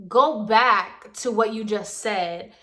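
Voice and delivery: slow, stressed retold demand; slowly, hitting the opening words; firm demand. Tenant halting the landlady to backtrack, firm demand.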